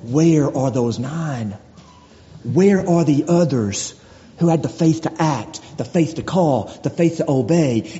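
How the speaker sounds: a lightly voiced Lord, slow and low; the Lord asking his people, slow and grave. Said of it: "we have the Lord saying".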